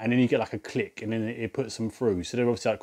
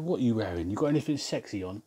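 mock flirty; 7 dB quieter than usual. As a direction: murmur it like a cheeky flirt. Retold flirty prank on caller.

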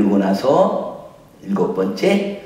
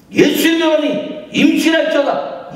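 high, loud hammed-up proclamation; mock pastor blessing; 4 dB louder than usual. (과장되게 크게 선포하는 목사 흉내)

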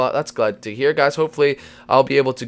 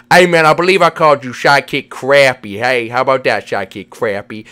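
slurred cartoon buddy; 5 dB louder than usual. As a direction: play a goofy pal with slushy consonants. Voices Vinny character.

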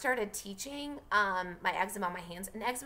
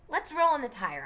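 Scout's line; 7 semitones higher, 5 dB louder than usual. Acted. Scout's line read aloud.

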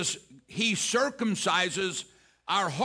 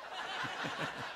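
soft laughter after a punchline; quiet, breathy chuckling; 12 dB quieter than usual. Real, not acted. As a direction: let the joke land with a low laugh.

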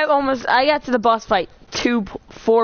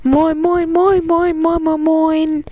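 lightly voiced seagull chant; 4 semitones higher, slower than usual. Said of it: "Without the seagulls".

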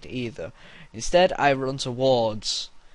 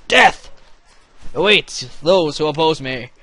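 hammy battle cry; 3 semitones higher, 12 dB louder than usual. Pretend. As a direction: proclaim it like a warlord.

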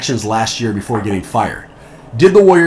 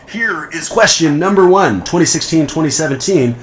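game show host voice; 3 semitones higher than usual. Pretend. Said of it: "my canned game show host voice".

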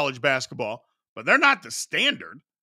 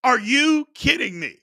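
are you kidding me, at the top of the voice; exasperated outburst; 9 semitones higher than usual. Retold or imitated. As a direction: yell it at the screen in disbelief. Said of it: "Nevada, I'm like".

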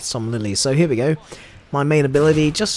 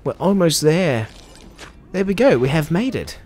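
higher and louder, cheering the finish; excited triumph; 5 semitones higher, 6 dB louder than usual. Real, not acted. Finishing the rescue event just in time, excited cheer. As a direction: celebrate making it in time. Event timer nearly done.

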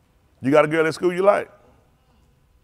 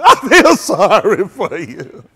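a hint of slow fake sympathy; mock pity; 3 semitones higher, 10 dB louder, much slower than usual. Kid hugging the ugly guy, mock pity. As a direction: lay the fake pity on slowly. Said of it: "you walk up to the ugly guy".

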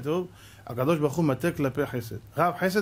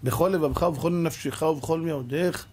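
slow chanted verse; quoting verse. Real, not acted. Preacher intones the Shema verse slowly.

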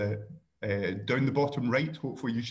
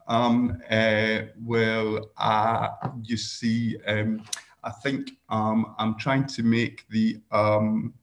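deliberate filler words; much slower than usual. Shown as a demonstration. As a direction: pile up ums and uhs on purpose, halting. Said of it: "it's telling me I'm using too many ums".

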